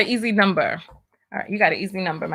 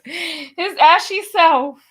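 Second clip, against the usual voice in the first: slow teasing jab; 5 semitones higher, much slower than usual. Acted. Teasing a man as ashy.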